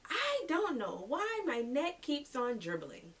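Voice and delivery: put-on high, drawn-out little-kid whine-call; imitating young son yelling out. Mom mimicking her son after his shower, calling out in high, slow kid voice. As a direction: stretch it out high and sing-song like a child. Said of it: "he yells out".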